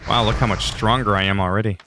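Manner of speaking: dry sarcastic praise; mock-impressed, tongue in cheek. Real, not acted.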